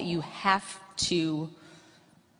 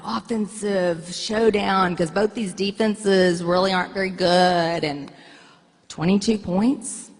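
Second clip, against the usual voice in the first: indignant; 4 dB louder than usual. Retold or imitated. Wife retells arguing with husband.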